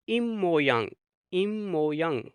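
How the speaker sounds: इम मो यंग said twice with a held m; इम मो यंग, the p turned into m; Korean pronunciation drill. Shown as a demonstration. Teacher drills students on इम मो यंग. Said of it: "इसको पढ़ेंगे".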